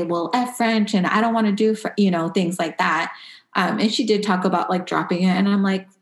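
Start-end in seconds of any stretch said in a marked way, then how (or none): 0.0-1.9 put-on higher-pitched retort of a defiant kid; mock disrespect. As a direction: imitate a kid talking back, lightly. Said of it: "disrespect me and say".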